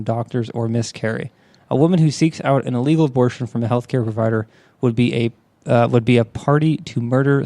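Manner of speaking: measured, informative reading; news article read-aloud. Real, not acted.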